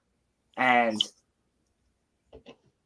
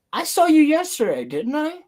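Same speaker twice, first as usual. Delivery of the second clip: high, excited retold quote; a lightly voiced excited star; imitating Hayden; 13 semitones higher, 4 dB louder than usual. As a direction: pitch it way up as Hayden greets you.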